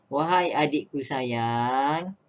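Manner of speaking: slow, loving address; gentle affectionate wahai; tender. Shown as a demonstration. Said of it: "perasaan sayang dan juga merayu".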